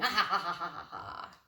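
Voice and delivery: a light mock laugh; gleeful laugh. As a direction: laugh like he's won. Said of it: "It looks like he's going".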